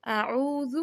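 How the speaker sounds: اعوذ with the وا held two seconds; lengthened vowel. Shown as a demonstration. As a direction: stretch the madd in اعوذ for two full counts. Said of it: "دو second لمبا کر کے پڑھنا ہے". (اعوذ میں مد دو سیکنڈ کھینچیں)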